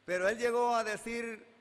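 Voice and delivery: sube la voz para presentar la cita; proclámalo con fuerza; fuerte para anunciar. Real, not acted. Predicador anuncia las palabras de Jesús. (predicador anunciando con voz fuerte)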